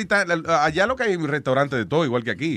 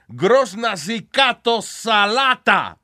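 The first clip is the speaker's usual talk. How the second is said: mock Bulgarian; 7 semitones higher, 5 dB louder, much slower than usual. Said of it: "En Bulgaria, si a usted le dicen".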